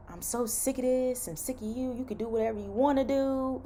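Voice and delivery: high, softened imitation of exasperation; mock fed-up rant. Nurse quoting recruiter who went off on her, mock exasperation. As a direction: mimic his outburst at reduced volume. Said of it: "this man went off".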